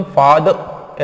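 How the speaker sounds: first फादर as abrupt "faad"; chopped ending. Shown as a demonstration. Teacher shows one wrong extreme, chopped ending. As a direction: cut फादर off right after द. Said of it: "ऐसे भी नहीं बोलना".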